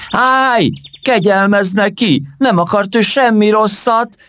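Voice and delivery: very high, loud desperate cry; frightened shout. Acted. Mimó running in to save her friend, a high frightened shout. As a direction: burst in breathless, begging for mercy. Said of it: "kiáltotta Mimó, az ijedtségtől és a futástól levegő után kapkodva".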